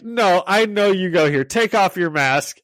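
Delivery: insistent mock Russian accent; lightly imitated Russian accent. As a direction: demand it with a hint of Russian. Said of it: "he's doing it all in, like, a Russian accent".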